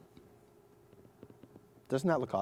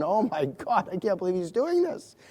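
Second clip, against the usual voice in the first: mock stunned audience; 7 semitones higher, 3 dB louder than usual. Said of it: "Everyone's going".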